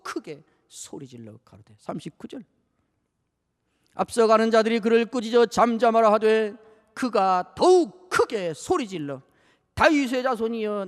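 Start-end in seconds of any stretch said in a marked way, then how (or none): 3.9-10.8 loud, slow, drawn-out cry; proclaiming cry. Acted. Preacher voices the blind man crying to Jesus. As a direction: cry out the verse for mercy. Scripture reading.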